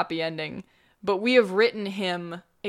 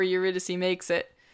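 usual speaking voice

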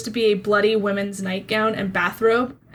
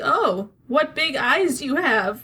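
put-on wolf character voice; 4 semitones higher than usual. Voicing a wolf that looks at the players: voicing the wolf. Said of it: "It looks at you and it's like".

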